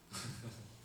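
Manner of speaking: low, soft chuckle; a brief breathy laugh under the words; short quiet laugh. Real, not acted. Preacher reacts to the absurd loophole, quiet laugh.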